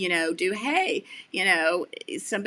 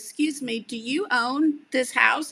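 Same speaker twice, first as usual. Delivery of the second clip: put-on polite teen boy; 5 semitones higher, 4 dB louder than usual. A hint of teenage Gideon asking the host politely. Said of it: "He goes".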